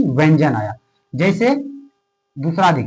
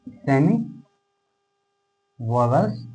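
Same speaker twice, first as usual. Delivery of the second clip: dictated word by word; 4 semitones lower, 6 dB quieter, slower than usual. Shown as a demonstration. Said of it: "words spaced out while writing".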